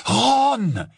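high, loud cry of his name; exclaiming. A narrator's reading. Hermione steps between the quarrelling boys, exclaiming. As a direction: call out sharply to stop him. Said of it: "s'exclama Hermione".

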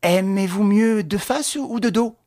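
slow mock-friendly question; sweetly cruel courtesy; officer asks the condemned prince, falsely kind. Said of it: "sur un ton de bonne amitié".

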